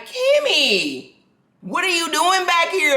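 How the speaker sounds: high, surprised call of her name; surprised cousin. Retold or imitated. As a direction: cousin Dre startled to find her backstage, surprised. Cousin Dre surprised to see her.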